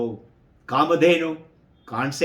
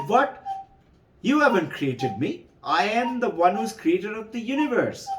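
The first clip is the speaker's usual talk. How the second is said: a startled, higher What then a boastful retort; indignant outburst; 6 semitones higher than usual. Acted. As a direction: scoff and claim the crown. Brahma retorts in quarrel.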